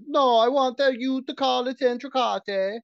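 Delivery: high, loud put-on diner voice ordering; high mock diner voice; mock snooty customer. Mock customer insisting on word.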